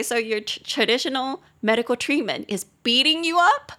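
imitated puzzled question, climbing at the end; mock incredulity. Foreign friend hears of the treatment, imitated disbelief. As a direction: build to a disbelieving "beating you up".

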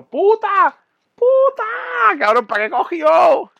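high, loud exasperated yell; outraged shout. Retold or imitated. Yelling after the woman who left him there, loud high outrage. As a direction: shout it in disbelief. Outraged she walked away.

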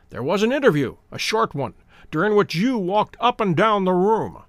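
plain reading voice

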